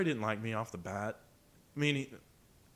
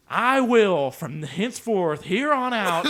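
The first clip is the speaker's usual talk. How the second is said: mock solemn pledge; 8 semitones higher, 10 dB louder, much slower than usual. Mock formal pledge to teacher.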